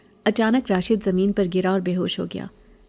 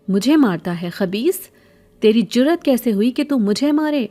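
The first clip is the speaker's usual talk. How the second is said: higher, louder furious scolding; 4 semitones higher, 4 dB louder than usual. Acted. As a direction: lash out at the boy who hit her. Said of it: "غصے میں لال پیلی". (بھکارن راشد پر، غصے سے چلاتی ہوئی)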